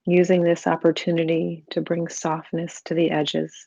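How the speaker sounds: calm, even meditation voice with long pauses; guided meditation. Real, not acted. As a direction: gently guide the listener into stillness, unhurried.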